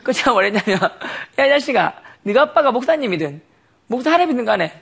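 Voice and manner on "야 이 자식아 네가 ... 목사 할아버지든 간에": retold scolding. Retold angry scolding of friend.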